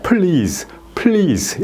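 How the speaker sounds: "please" with pl linked straight into ease; joined-up pronunciation. Shown as a demonstration. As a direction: say "please" as one connected beat. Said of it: "이렇게 연습하면은 이제 이어지면은".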